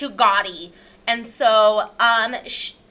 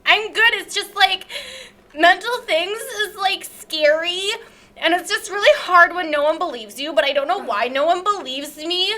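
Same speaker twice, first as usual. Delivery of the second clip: self-pitying guest character; 3 semitones higher than usual. Acted. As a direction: protest like a misunderstood victim. Character complains nobody believes her.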